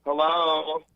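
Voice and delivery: distant, choppy phone audio; breaking up. Real, not acted. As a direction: voice cutting in and out. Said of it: "You're breaking up for me".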